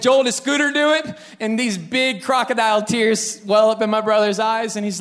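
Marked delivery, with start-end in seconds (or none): 0.0-1.2 high, rising imitation of a questioning father; questioning dad. Dad questions the younger brother, high and probing. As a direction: imitate dad pressing the younger son, pitched up.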